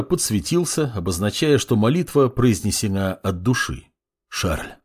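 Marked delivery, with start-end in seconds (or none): 4.3-4.7 quiet whisper of a name. A narrator's reading. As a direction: breathe the name softly. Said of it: "прошептал Арт". (шёпотом)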